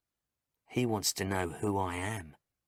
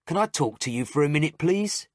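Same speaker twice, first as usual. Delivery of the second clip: raised, higher calling voice; doctor calling the nurse over, raised and high; 7 semitones higher, 8 dB louder, faster than usual. A narrator's reading. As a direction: call her in from the doorway.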